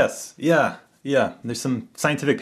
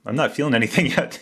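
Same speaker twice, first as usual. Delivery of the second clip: laughing; 2 semitones higher than usual. Retold or imitated. Laughing retelling own joke.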